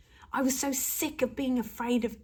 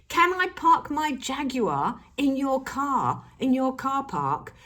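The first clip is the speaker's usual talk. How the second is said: pushy request; 3 semitones higher, 4 dB louder, slower than usual. Acted. Acting pushy favour requests.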